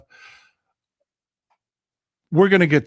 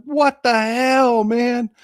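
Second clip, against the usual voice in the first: mock outrage; 5 semitones higher, much slower than usual. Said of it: "I was like".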